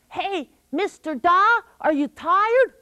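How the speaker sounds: high, slow coaxing trickster voice; wheedling high voice of a clever trickster; sly trickster. Acted. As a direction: sweet-talk the dim giant. Trickster coaxing the dumb giant.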